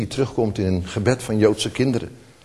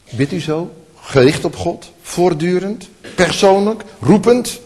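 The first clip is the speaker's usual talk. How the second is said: rising challenge; 5 semitones higher, 5 dB louder than usual. Real, not acted.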